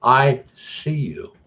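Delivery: put-on "I see you" sung out slowly as a haunted doll girl; little girl doll voice. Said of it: "but in the little girl's voice now".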